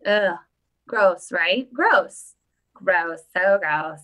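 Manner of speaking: disgusted. Pretend. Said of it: "I'm gonna have to reenact it".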